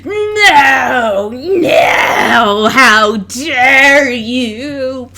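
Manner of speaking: high, loud cry of disbelief; hammed-up wail of a beaten wrestler; outraged shout. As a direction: scream it as you hit the floor. Wrestler thrown out of ring.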